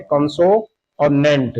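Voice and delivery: कंसो and नेंट slowly, as two separate parts; syllable by syllable. Shown as a demonstration. Teacher showing two syllables, कंसो and नेंट said slowly and separately. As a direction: set कंसो apart from नेंट, taking it slowly. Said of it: "इस शब्द को हम दो बार में बोल रहे हैं".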